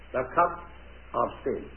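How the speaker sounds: hushed reveal. Acted. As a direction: drop to a dark hush. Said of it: "dramatic reveal of cup".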